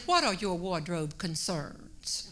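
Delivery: lightly imitated New York accent, slow and measured; a slow touch of New York accent. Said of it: "And in her accent, she said".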